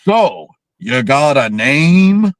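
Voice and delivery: slow, mocking redneck drawl; fake Southern redneck accent. Host mimics the dumbest line in movie history, fake redneck accent. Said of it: "he comes up with the next".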